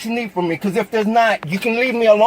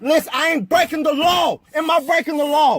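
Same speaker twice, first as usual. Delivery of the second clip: angry; 2 semitones higher than usual. Real, not acted. Arguing with officer and wife.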